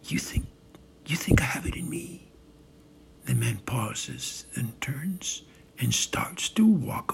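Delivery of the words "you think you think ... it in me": hesitant, understated question; mildly unsure, halting delivery; soft, tentative. Acted. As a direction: ask it gently, with a false start. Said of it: "Trump, softly, tentatively".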